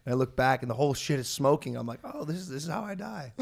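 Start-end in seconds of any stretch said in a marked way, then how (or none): 2.0-3.3 laughing resignation. Retold or imitated. Retold quad fire story.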